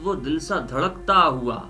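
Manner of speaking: normal talking voice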